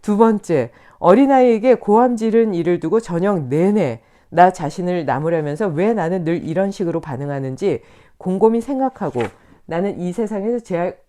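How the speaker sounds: usual speaking voice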